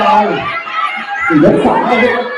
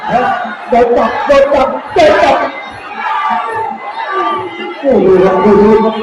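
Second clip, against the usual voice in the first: excited commentary; 4 semitones higher than usual. Real, not acted. Live Muay Thai fight commentary.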